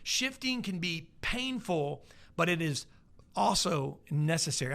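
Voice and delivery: slow, deliberate second reading; slow repeat of the quote. Shown as a demonstration. Preacher repeating a quote slowly for the congregation. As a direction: lean on each word. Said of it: "Let me give it again".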